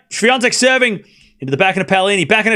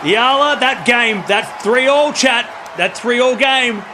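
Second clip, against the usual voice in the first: excited call; 3 semitones higher, slower than usual. Real, not acted. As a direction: call it out big for the chat.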